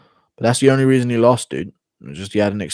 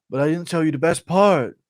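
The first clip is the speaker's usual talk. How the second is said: higher-pitched Ortega voice; Ortega impression; 7 semitones higher than usual. Ortega pressing on with his fishing story, higher impression voice. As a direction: play an eager, rambling storyteller, pitched up. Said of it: "Ortega and Till on a fishing trip impression".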